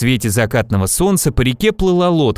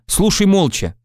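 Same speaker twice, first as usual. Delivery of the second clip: higher, mildly annoyed order; cross; 6 semitones higher than usual. A narrator's reading. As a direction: tell them off mildly. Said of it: "рассердился Иван". (слегка сердито)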